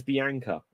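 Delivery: Bianca said the British way, bee-ANK-uh; short "a" as in "bank" in Bianca; UK pronunciation. Shown as a demonstration. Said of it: "in the U K".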